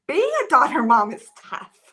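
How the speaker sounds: choking up after a heavy sigh; sigh, then get it out through rising tears; tearing up. Real, not acted. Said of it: "I didn't think I'd tear up".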